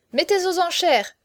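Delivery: high, loud call; excited cry. A narrator's reading. Young marquis urging an auction, excited cry. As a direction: cry it out with lively eagerness. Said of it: "s'écria Chaverny".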